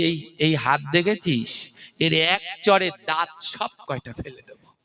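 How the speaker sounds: mild threatening teacher voice, a bit changed; lightly voiced teacher warning of a slap; stern tall teacher. Guru threatening the student, lightly voiced threat. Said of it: "তো বলছে".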